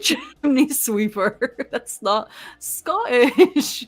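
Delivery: laughing. Real, not acted. Teasing friend, laughing.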